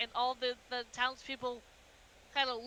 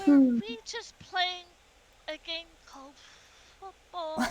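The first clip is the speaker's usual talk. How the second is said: puzzled; 3 semitones higher, slower than usual. Acted. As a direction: trail through it in dazed confusion. Puzzled character after the game.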